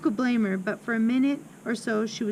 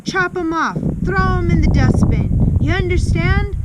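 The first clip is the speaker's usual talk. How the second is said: high, loud barking commands; barked; 9 semitones higher, 10 dB louder than usual. A narrator's reading. Headmistress demands pigtails be chopped off, barked. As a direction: shout orders at a cowering pupil. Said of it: "she barked".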